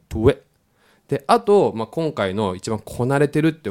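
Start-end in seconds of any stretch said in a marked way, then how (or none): 0.1-0.4 トゥエ as one quick "tweh", puckered then released; T-W-short I blend. Shown as a demonstration. Teacher joining the sounds for learners, loosened short vowel. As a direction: glide from pursed lips into slack トゥエ. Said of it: "口の緊張感をほどいた".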